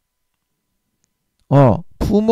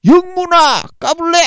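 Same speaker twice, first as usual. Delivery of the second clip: very high, louder threatening call; big brother scolding; 4 dB louder than usual. Retold or imitated. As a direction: threaten the little brother loudly. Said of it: "장남이 영문이를 혼내는 것처럼". (장남이 영문이를 혼내듯 높고 큰 호통)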